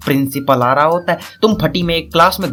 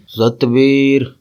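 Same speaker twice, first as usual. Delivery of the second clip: father calling out; 4 dB louder, much slower than usual. Acted. Father calls his son from behind, building to a shout. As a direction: summon a son from another room, getting louder. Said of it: "तभी पीछे से आवाज आएगी".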